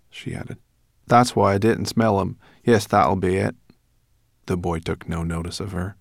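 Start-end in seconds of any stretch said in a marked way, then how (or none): 1.1-3.6 put-on brownie girl. Brownie girl explaining why she missed the boy's scent. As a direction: settle it with a sniff.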